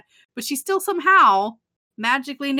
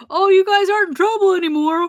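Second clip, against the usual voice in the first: mock breezy dismissal; 8 semitones higher, 7 dB louder than usual.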